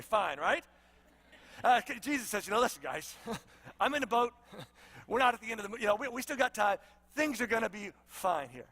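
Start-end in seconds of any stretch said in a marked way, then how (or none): 2.5-8.7 chuckling, easygoing calm; laughing reassurance. Acted. Jesus laughs and reassures the panicked disciples, easygoing. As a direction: laugh off their fear kindly.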